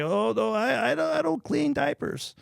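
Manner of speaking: put-on high, slow Asian-accented coach refusing diapers. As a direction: play the old master with a thick Asian accent, pitch rising. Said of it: "this Asian accent you're doing".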